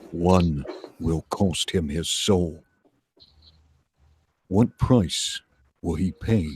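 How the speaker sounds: slow, dramatic trailer narration with long pauses; brooding voiceover read; movie trailer voice. Acted. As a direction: sell the doom of it like a blockbuster promo. Reads a movie trailer pitch.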